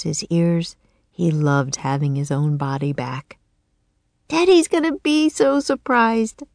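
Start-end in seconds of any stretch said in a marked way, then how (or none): 4.3-6.4 put-on high little-girl voice, croaked; a girl turned raven, croaking. Annie to Jack in the nursery, high croaking girl. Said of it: "said Annie".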